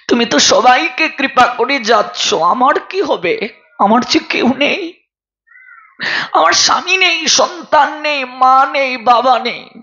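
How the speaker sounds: mildly acted weeping of a poor maidservant; tearful pleading. Lonely maidservant pleads with Gourhari over her last days, tearful. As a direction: plead as if close to tears, lightly acted. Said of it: "দুঃখী কেঁদে কেঁদে বলছে".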